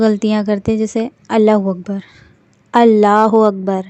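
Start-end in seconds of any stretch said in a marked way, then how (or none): 1.3-2.0 اللہ اکبر run together quickly as alahu akbar; quick slurred Allahu Akbar. Shown as a demonstration. Teacher shows the common mistake, rushed. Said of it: "کچھ لوگوں کی میں بات کر رہی ہوں". 2.7-3.8 اللہ اکبر slow and louder, doubled l in اللہ; careful Allahu Akbar. Shown as a demonstration. Teacher shows the correct way, slow and clear. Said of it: "جو صحیح ورڈ ہے".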